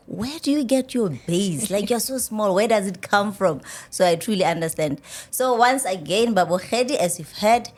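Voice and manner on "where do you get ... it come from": mildly incredulous imitation of people; puzzled onlookers. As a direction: lightly mimic baffled questioning, a little raised. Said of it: "people are like".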